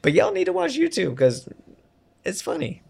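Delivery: muffled behind a leather mask; through a face mask. Real, not acted. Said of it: "I'm wearing a mask right now".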